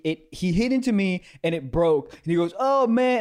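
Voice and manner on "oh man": high, loud mock outcry; hammed-up imitation of a fake complaint; badly faked dismay. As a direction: act upset like a bad con artist. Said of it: "he did it really badly".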